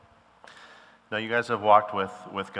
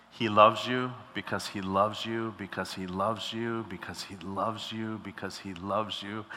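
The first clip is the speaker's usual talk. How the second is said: breathless, fading repetitions; running out of air. Real, not acted. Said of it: "I'm running out of breath".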